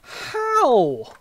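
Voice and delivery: high, drawn-out desperate plea; hammed-up desperation, sliding down from high; desperate asking. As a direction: ask it in exaggerated desperation. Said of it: "Desperately ask".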